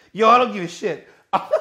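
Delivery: laughing through the words; laughing in disbelief. Real, not acted. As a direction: crack up while ranting. Laughing mid-rant.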